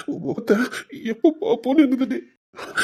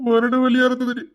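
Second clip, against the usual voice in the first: tearful pleading. Acted. Husband pleads tearfully for forgiveness.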